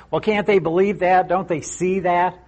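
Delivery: lightly mocking disbelief; mock incredulous. Voicing critics who blame the disciples.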